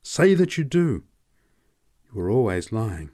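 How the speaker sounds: man raving, high, loud and fast; passionate outburst. Acted. Man with his head in Elsa's lap, raving. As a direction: pour out savage longing, unchecked. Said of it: "his muffled voice".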